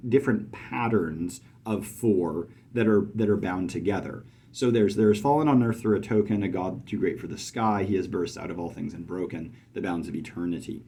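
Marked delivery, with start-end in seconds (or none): 5.0-10.8 poem reading. Shown as a demonstration. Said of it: "you can hear that token".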